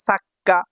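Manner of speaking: সাক্কা with a held double k; doubled consonant. Shown as a demonstration. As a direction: pause on the k in সাক্কা. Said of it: "কা দুইবার উচ্চারণ হলে কি হবে".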